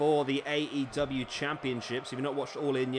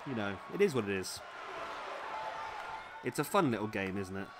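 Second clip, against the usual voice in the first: holding back hiccups; speaking while stifling hiccups; 3 semitones lower, 5 dB quieter than usual. Real, not acted. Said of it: "I've still got the hiccups".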